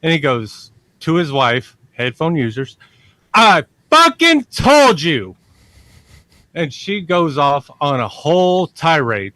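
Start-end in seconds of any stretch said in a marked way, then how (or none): 3.3-5.4 loud, slow, high I-told-you-so shout; triumphant yell. Retold or imitated. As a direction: hammer each word home at the wife. Husband yells at his wife.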